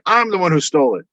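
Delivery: high-pitched teasing admission; playful confession. Retold or imitated. Archimedes owning up to stealing the tunic, high and playful. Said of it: "she's like".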